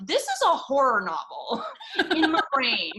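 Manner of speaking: high, laughing horror; laughing disbelief. Retold or imitated. Realizing her thoughts read like horror, laughing in disbelief. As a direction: laugh at how dark it is. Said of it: "you're like".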